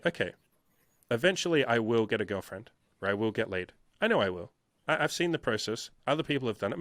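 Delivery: settled, easy inner monologue; calm self-assurance. Acted. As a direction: reassure yourself after a deep breath. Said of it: "you take a deep breath and say".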